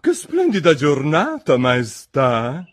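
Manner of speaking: high-voiced, deferential greeting to royalty; submissive Duchess. A narrator's reading. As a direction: fawn before the queen in a high voice. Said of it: "a voce bassa e sottomessa".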